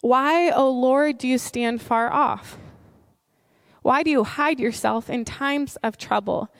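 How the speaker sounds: measured, solemn reading of the psalm; scripture reading. Shown as a demonstration. Pastor reading the opening of Psalm ten aloud, solemn. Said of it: "So it begins like this".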